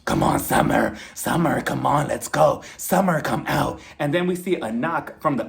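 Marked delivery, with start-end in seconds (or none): 0.0-3.8 loud, insistent mock summons; imitated calling out. Marlo banging on Kenya's door, imitated insistent calling. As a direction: call someone out through a door.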